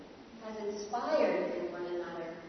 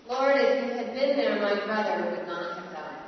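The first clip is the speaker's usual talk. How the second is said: anguished plea; 6 dB louder than usual. Acted. Repeated grieving plea.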